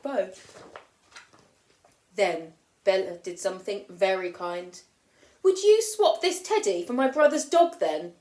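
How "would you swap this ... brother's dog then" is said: hopeful big sister. Acted. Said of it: "she asked".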